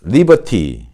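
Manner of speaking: British "리버티" with a clear T; British model, crisp T in "리버티"; British pronunciation. Shown as a demonstration. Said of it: "근데 영국식 발음은".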